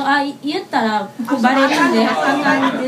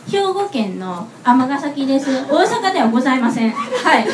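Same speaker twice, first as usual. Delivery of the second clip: mock formal declaration. Real, not acted. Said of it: "ここを代表して言わせてください".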